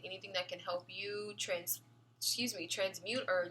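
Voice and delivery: talking through hiccups; suppressing hiccups. Real, not acted. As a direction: hiccup breaks the words. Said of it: "I just got the hiccups".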